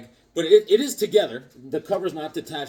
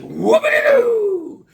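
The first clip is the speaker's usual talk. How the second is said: high, slow mocking shout of whoopity-doo; sarcastic whoopity-doo; 9 dB louder, much slower than usual. Mocking Harvey's call with a drawn-out high whoopity-doo. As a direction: stretch it out high in mock delight.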